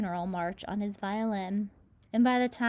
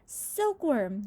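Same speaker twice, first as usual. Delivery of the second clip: yelled call; 4 semitones higher than usual. Acted. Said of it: "yelled James".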